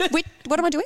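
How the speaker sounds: high, laughing mock bewilderment; confused mum. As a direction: imitate a lost mum, amused. Imitating confused mum during class.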